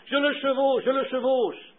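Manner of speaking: high-pitched call at moderate volume; mild exclamation, lifted well above normal pitch; retold cry. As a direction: retell a sudden cry, pitch jumping up. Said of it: "en criant".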